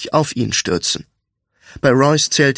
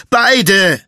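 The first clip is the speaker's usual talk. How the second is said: high, loud single-word order; firm shout; 7 semitones higher, 5 dB louder than usual. A narrator's reading. Friend stepping between two quarrellers, firm raised voice. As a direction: call both parties to order.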